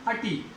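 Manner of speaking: अटी as uh-tee; weak uh before tee in अटी; falling model अटी, no i in the first syllable; correct ending. Shown as a demonstration. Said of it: "लिटी नहीं".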